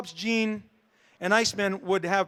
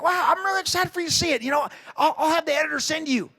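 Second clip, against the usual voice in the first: higher, fast, gushing; excited Kirkman; 7 semitones higher than usual. Retold or imitated. Kirkman eager for him to read the comic, fast and high. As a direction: rush it out like an eager friend. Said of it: "He's like".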